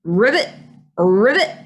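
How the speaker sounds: rising ribbits with gaps between; storybook frog calls, each swooping up. A narrator's reading. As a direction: imitate a frog croaking. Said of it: "is the sound of a frog".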